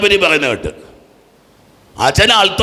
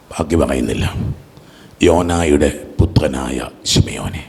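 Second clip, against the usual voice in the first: very low, hushed pronouncement; solemn blessing; 14 semitones lower, 3 dB quieter than usual. Acted. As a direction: let it sink deep and soft, pausing between phrases. Acting Jesus blessing Peter solemnly.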